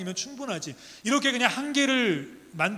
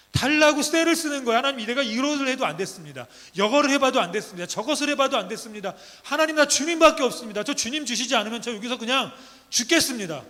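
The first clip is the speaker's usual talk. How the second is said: pleading prayer; 5 semitones higher, 4 dB louder than usual. Acted. Voicing a desperate pleading prayer.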